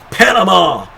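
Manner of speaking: high, loud move call; shouted call. Real, not acted. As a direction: belt out the finisher's name. Finisher called live.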